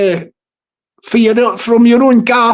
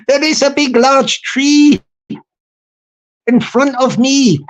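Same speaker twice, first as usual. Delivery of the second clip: improvised mock poem. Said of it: "I will do you a little Irish poem".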